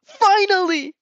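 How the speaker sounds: high excited yelp of joy; a quick, bright shout of triumph; cheer. Acted. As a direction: cheer it out, thrilled. Mina celebrating.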